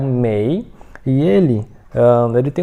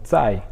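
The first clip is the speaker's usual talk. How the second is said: firm, falling stress on "zai"; forceful "zai". Shown as a demonstration. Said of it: "Forte assim mesmo".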